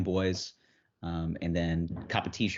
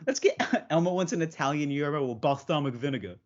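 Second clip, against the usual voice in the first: Elmo voice; 7 semitones higher than usual. Acted. Joining the Elmo bit.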